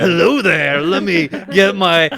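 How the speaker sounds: put-on a laughing take on old Obi-Wan greeting; hint of Obi-Wan Kenobi; Obi-Wan impression. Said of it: "waiting for Obi-Wan Kenobi to come out".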